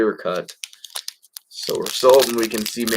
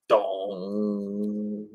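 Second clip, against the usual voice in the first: mock bell toll; 3 dB quieter than usual. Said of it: "you can just hear the bells tolling".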